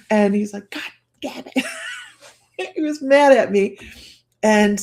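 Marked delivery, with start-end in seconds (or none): 0.7-1.6 higher, half-voiced exasperated curse; mock pissed-off husband. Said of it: "then he got pissed".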